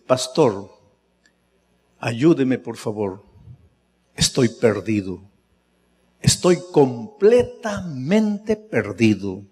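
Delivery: put-on low, soft pleading of a crying young man, slowing at the end; quiet tearful plea. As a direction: beg for help, voice sinking. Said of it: "empezó a llorar". (súplica baja y llorosa, sin llanto real)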